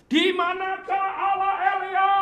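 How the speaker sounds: loud, high anguished cry to God; desperate cry, pitched high. Retold or imitated. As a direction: call out to heaven in despair. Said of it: "Dia teriak gini".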